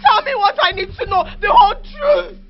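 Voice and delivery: shouting through tears; crying angry outburst at mother; tearful demand. Acted. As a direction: demand the truth, voice cracking. Daughter demands truth, crying.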